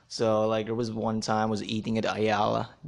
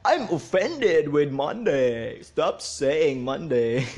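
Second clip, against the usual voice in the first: mock offended; 3 semitones higher, 4 dB louder, slower than usual. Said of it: "being offended now is like a sports".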